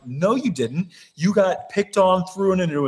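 retold incredulous pushback; mock argumentative. Retelling a blunt rebuttal to Bananas.

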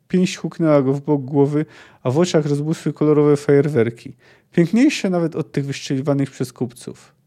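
measured audiobook narration; story narration. A narrator's reading. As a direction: read the battle scene as a storyteller. Reads the fight scene aloud. (narracja powieści)

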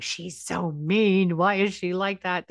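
slow, sulky grumble about mom; sulky teen. Retold or imitated. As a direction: drag it out like a resentful kid. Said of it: "They walk away going".

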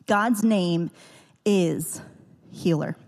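is held apart with pauses; God's name, pause, is, pause, healer; stress on is. Shown as a demonstration. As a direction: lean into the little word is. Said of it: "I emphasize that two little letter word is".

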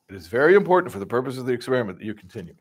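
stoic experimenter. Retold or imitated. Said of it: "the same line over and over".

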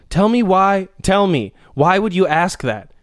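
mock pleading girlfriend. Mock girlfriend demanding answers from her boyfriend, pleading. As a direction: whine it like a needy partner.

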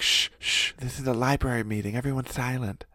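hushed shushing, soft and fast; librarian shushing whisper. Pretend. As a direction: shush the room quickly. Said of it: "they're like".

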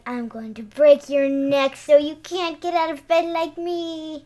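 ghostly sister taunt. Retold or imitated. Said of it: "and she's like".

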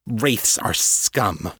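very slow, spat-out contempt; hissed. Acted. Sylvia sneering at wraiths to the agent, slow and contemptuous. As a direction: let each word drip with disgust. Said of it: "Sylvia hissed".

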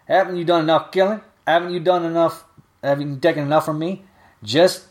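put-on New Orleans dialect, distraught old woman telling a killer to get out; Miss Nelly's dialect. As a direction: shopkeeper in New Orleans dialect driving the gunman out of her store. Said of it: "I'm not sitting there adding this accent".

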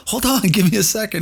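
high, laughing hold on; laughing plea. Retold or imitated. Pleading to stay on field.

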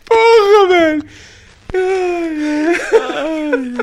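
high, fast words between laughs; breaking up mid-sentence; laughing. Real, not acted. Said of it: "E temos o primeiro ataque de riso ao vivo".

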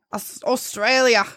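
drawn-out, tentative Australian accent; attempted Australian accent. Shown as a demonstration. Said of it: "I can't do an Australian accent".

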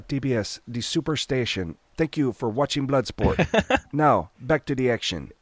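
a hushed late-night TV promo read; TV announcer. Retold or imitated. Imitating the TV announcer.

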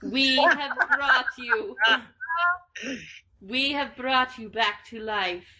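lightly voiced chorus of desert spirits; slow, portentous spirit proclamation; a hint of otherworldly spirits speaking. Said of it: "We are the desert sand spirits".

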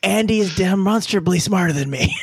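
said through a laugh, "Andy" stressed. Real, not acted. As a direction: concede it while chuckling. Laughing concession.

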